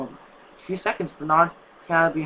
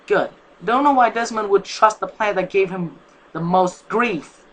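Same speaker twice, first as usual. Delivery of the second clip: louder, smug satisfied retort; 4 semitones higher, 6 dB louder than usual. Acted. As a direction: sound pleased with the outcome. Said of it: "said in satisfaction".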